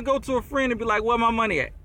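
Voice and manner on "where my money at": lightly imitated cartoon demand; a touch of a little cartoon debt collector; Stevie Griffin. Seller going to a friend for money, light cartoon impression. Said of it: "in the little Stevie Griffin voice".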